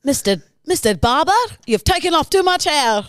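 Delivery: a lightly hammed German accent. An unhappy German man complains to his barber, German accent. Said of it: "that was your German".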